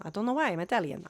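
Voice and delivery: lilting, hammed-up Italian accent; mock Italian accent. Vlogger puzzled why she turned Italian, mock Italian accent. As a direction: play at being Italian for a moment. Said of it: "Now I'm Italian".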